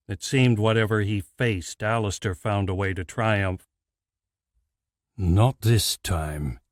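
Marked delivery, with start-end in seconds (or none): 5.2-6.6 smirking. Acted. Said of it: "he decided with a smirk".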